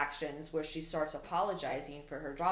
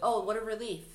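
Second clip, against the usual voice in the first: dry mock relief, pitched up; sarcastic; 5 semitones higher than usual. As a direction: say it like you don't believe a word. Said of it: "She's very sarcastic".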